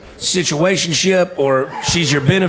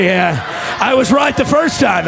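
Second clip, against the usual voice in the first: triumphant shout; 9 semitones higher than usual. Real, not acted. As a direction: crow it out at the crowd. Roasting an audience member, shouting.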